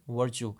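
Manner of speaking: virtue said "VUR-choo", central er vowel; correct English pronunciation. Shown as a demonstration. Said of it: "you will pronounce that word as".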